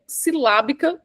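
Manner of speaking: "silábica" split into deliberate syllables; syllabic emphasis. Shown as a demonstration. Coach naming the first technique while using it, syllabic emphasis. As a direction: set "silábica" apart, stretching its syllables. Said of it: "acabei de usar de novo".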